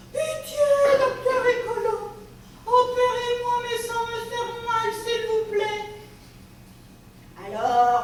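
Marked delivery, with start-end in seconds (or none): 0.1-5.8 high pleading little voice. A narrator's reading. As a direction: beg the doctor, voice pitched up. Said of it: "monsieur Légumes implore". (supplique aiguë)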